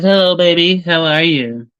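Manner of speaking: a hint of mimicking his girlfriend's cooing hello; girlfriend's greeting. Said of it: "She says".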